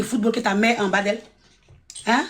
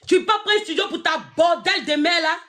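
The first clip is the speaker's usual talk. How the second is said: repeated line shouted higher; shouting; 5 semitones higher than usual. Real, not acted. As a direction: yell it out the second time.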